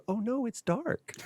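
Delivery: put-on high, slow little toddler voice; a sleepy two-year-old in the dark; small child voice. Son calling out to his father when the stars go dark, in a high slow toddler voice. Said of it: "little two-year-old voice go".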